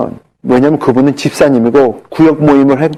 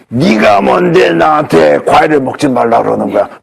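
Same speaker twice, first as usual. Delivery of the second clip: a lightly voiced monster, suddenly hostile. Cancer patient turns on the doctor, mild mock monster voice. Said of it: "목소리가 변해. 괴물 목소리로".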